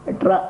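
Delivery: ట్రా as one hard retroflex "tra"; a demonstrated, stand-alone ట్రా; Tamil letter demo. Shown as a demonstration. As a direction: curl the tongue for ట్రా, run straight into the r. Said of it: "అలా పలకాలి".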